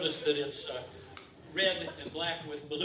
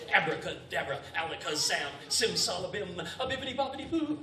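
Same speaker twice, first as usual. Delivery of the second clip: put-on kids party magician. Chain of magic words.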